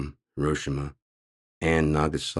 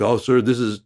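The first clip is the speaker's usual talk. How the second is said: flustered agent; 3 semitones higher, 5 dB louder, faster than usual. Retold or imitated. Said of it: "They're like".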